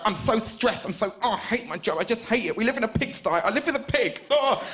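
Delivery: a touch of a fed-up partner venting; stressed girlfriend. Retold or imitated. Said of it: "she'd kick open the door and go".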